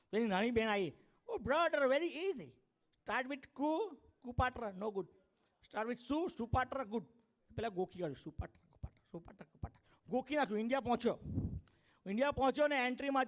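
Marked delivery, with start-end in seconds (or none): 1.3-7.0 a hint of a higher, chirpy kid sister; lightly voiced little sister. Little sister explains, American-style. 8.2-9.8 soft whispered rote drilling; rote muttering. Retold or imitated. Boy memorizes words under his breath.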